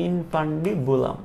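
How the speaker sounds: ইনফান্ডিবুলাম slowly, each syllable drawn out; slow dictation of ইনফান্ডিবুলাম for learners; syllable-by-syllable demo. Shown as a demonstration. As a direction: draw out ইনফান্ডিবুলাম as in-fan-di-bu-lam. Teacher repeats the term slowly.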